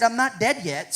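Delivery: a wry, amused protest; mock-indignant, half-laughing; joking disbelief. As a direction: tease the superintendent with it. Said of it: "I said".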